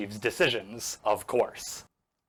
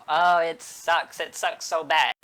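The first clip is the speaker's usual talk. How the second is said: loud, slow, hammed-up moaning; mock dying moan; 4 semitones higher, 5 dB louder than usual. Padme moaning as she dies.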